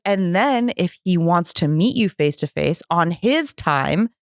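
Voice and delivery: slow, deliberate retold instruction; firm instruction. Sponsor laying down terms for the meeting, measured insistence. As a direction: spell out each condition slowly.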